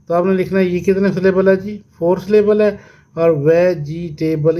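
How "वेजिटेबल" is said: "वेजिटेबल" slightly slow, syllables marked but joined. Shown as a demonstration. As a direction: lightly separate the beats of वेजिटेबल. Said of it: "इस तरह से". ("वेजिटेबल" थोड़ा धीरे, हिस्से जताकर)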